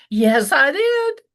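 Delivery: mock-cheerful yes, I did; cheerful reply. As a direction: answer him with cheerful pride. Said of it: "and I said".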